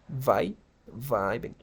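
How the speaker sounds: "vi" as VAI, then "vibing" as VAI-beng; first-vowel demo. Shown as a demonstration. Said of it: "La primera I se pronuncia como I".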